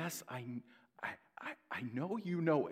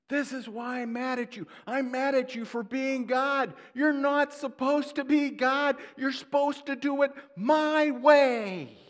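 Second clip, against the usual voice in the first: high, loud indignant rant; angry Jonah; 9 dB louder than usual. Retold or imitated. Jonah rails at God for not doing it his way, loud and high. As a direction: shout the grievance up at God.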